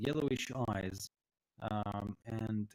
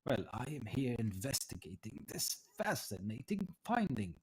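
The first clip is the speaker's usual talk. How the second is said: fascinated scholar, understated; lightly voiced old tiefling; 3 dB quieter than usual. Tiefling explains his investigation to visitors, lightly voiced and fascinated. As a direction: savour the discovery with a lilting delivery. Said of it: "looks at you and says".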